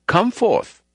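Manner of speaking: hammed-up commanding shout. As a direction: belt it out as if waking the dead. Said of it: "shouted out".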